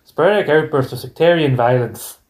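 demonstrated Northern Irish party-piece phrase; Northern Irish accent. Shown as a demonstration. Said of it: "I can do this in Northern Irish accent".

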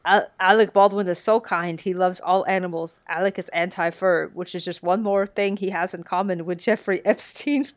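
badly faked Eastern European accent; a weak attempt at an Eastern European insult comic; Triumph's Eastern European accent. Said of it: "I will do my best to do the Eastern European accent".

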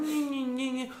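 high, soft mock whining; whiny baby talk. Dad mimicking his kids starting to whine, mock baby whine. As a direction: imitate kids whining like babies. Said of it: "eles começam a nhin".

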